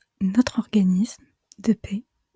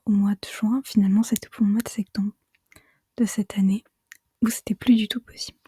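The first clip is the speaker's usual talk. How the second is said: hushed ASMR whisper. Real, not acted. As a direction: whisper it all, close to the mic. Avec ma voix chuchotée.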